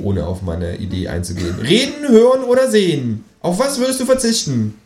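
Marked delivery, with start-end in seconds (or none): 1.6-4.7 high kangaroo question. Acted. Kangaroo ignores the film idea, high voice. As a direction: quiz him as the kangaroo. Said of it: "sagt das Känguru".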